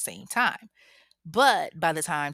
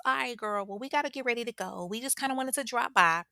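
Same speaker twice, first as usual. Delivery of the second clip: higher, quick breezy goodbye; casual exit; 6 semitones higher, faster than usual. Retold or imitated. Tasha making an excuse to leave, breezy and quick. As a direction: rush out casually. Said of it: "Tasha just all of a sudden says".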